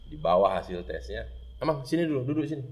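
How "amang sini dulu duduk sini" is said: ominous calm call. Retold or imitated. Father summoning son ominously.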